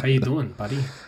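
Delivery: put-on quiet Minnesota accent. The speakers try to talk like Dahmer for a promo clip: Dahmer impression. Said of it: "try and talk like Dahmer".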